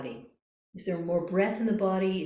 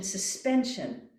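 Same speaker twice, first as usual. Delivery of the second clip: slow calm suspension; slower than usual. Shown as a demonstration. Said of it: "suspension, not tension".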